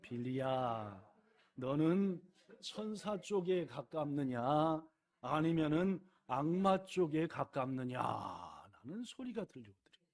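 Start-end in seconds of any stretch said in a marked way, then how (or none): 0.0-8.5 slow, lightly voiced grandfather; a hint of a stern old grandfather, slow; grumpy old man. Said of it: "할아버지 톤으로 해봅시다".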